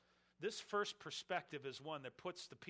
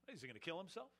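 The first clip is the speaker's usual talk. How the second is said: sneer; 2 semitones higher than usual. Retold or imitated. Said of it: "Kind of a sneer".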